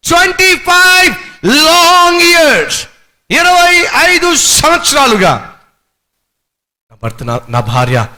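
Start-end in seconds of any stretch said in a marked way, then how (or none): 0.1-5.6 high, loud, slow wailing husband; mock lament. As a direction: wail it out like a broken husband. Pastor acts lamenting husband. (భర్త ఏడుపు గొంతుతో నెమ్మదిగా, ఎత్తైన స్వరంలో)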